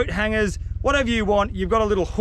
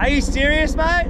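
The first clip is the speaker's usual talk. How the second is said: exasperated; 7 semitones higher, 4 dB louder than usual. Real, not acted. Annoyed at the loud helicopter.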